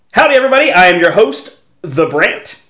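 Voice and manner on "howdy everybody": cheery howdy. Acted. Host greeting again.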